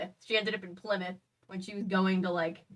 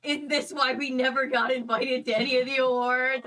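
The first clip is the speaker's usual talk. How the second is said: louder, higher mock-dismayed question; retold dawning realisation; 5 semitones higher, 5 dB louder than usual. Imitating the band's realisation, mock dismay. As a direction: ask it as it suddenly dawns. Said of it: "And they're like".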